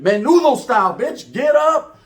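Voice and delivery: loud, high-pitched urgent command; impatient order. Retold or imitated. Telling his girlfriend to get up, impatient shout. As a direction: order her up like there's no time.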